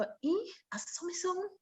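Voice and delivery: high, soft country Jamaican put-on; rural Jamaican voice. Actress replaying her country Jamaican rehearsal voice. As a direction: slip into a country Jamaican sound. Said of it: "I'm gonna go".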